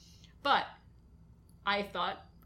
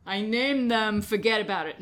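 put-on Brooklyn accent; 5 dB louder than usual. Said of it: "You have to do it in a Brooklyn accent".

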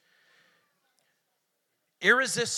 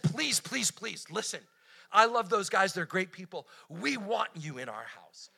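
urgent pleading. Pretend. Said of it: "what if I would have urged them".

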